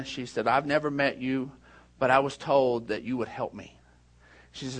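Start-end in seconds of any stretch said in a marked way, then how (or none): 0.5-3.8 soft, low, understated appeal; subdued retelling, lower than usual; retold tearful plea. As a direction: quietly imitate a distressed mother asking for help. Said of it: "she's just crying".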